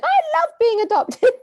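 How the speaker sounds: high, slow, syrupy mock voice; mocking sing-song voice. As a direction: gush it in a high fake-sweet voice. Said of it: "they probably will ignore me going".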